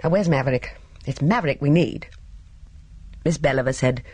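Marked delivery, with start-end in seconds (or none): 0.0-2.1 irritably. Acted. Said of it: "said irritably".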